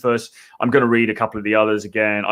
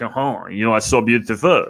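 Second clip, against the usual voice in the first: lightly put-on French accent; mock French seducer's accent. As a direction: do a hammy French charmer's accent. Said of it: "French accent?".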